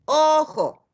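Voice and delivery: "Ojo" split into syllables "O-jo"; syllable demo. Shown as a demonstration. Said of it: "Aquí tendríamos el silábico". ("Ojo" separado en sílabas)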